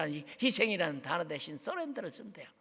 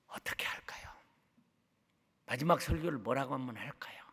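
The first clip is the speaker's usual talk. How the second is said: hushed musing to the congregation; whispered question; 6 semitones lower, 7 dB quieter than usual. Real, not acted. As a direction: think aloud in a whisper.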